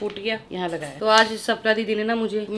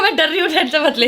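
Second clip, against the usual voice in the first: laughing; 5 semitones higher than usual. Retold or imitated. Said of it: "मैं कहा".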